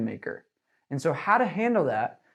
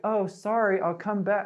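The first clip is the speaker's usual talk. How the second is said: meek backing down; 4 semitones higher than usual. Shown as a demonstration. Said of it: "don't back down".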